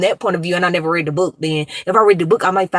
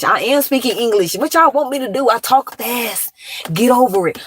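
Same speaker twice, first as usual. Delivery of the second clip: pitched-up, exasperated comeback; defensive, higher-pitched protest; indignant retort; 6 semitones higher than usual. Real, not acted. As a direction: push back at the critic, voice raised in pitch. Retorting to comment on her English.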